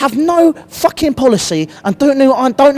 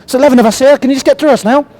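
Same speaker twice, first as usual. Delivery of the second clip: mock opposing captain; 3 semitones higher, faster than usual. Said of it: "Get back and go".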